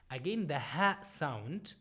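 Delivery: usual speaking voice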